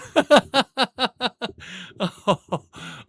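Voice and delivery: a long, high laugh that slowly falls away. Real, not acted. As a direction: laugh long and high, then let it die down. Laughing at the chat's comment.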